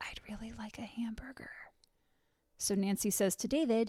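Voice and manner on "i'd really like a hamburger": very quiet, hushed whisper. Retelling how Sid leaned over to Nancy: imitating a whisper. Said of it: "leans over to Nancy and whispers".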